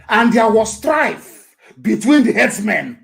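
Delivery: slow, emphatic Bible reading; emphatic scripture reading. Real, not acted. Preacher reading the proof verse to pastors, emphatic. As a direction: proclaim the verse slowly.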